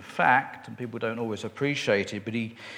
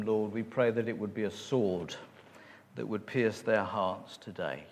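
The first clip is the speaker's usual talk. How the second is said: public prayer; 3 semitones lower than usual. Real, not acted. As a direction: lead the congregation in prayer, easing down towards the amen. Leads a prayer.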